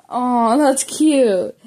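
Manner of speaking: a real laugh breaking into a fond aside; amused laugh. Real, not acted. Reader laughing fondly at her own story, amused. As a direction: chuckle through it, amused and charmed.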